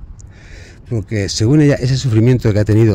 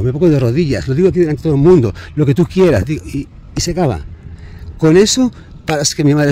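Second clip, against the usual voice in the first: súplica angustiada; 4 semitones higher than usual. Real, not acted. Súplica angustiada sobre su madre.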